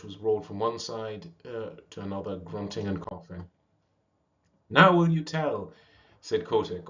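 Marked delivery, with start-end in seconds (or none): 4.7-5.7 higher, louder, slow demand; breathless demand. Acted. Worn-out young seal demanding an answer, loud. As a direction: push it out after the chase. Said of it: "all out of breath".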